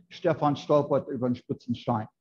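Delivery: southern German accent, words slurred together; relaxed southern dialect, "spitzen Stein" run together. Shown as a demonstration. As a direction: slur "Stefan stolpert über den spitzen Stein" the southern way. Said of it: "so they slur it more".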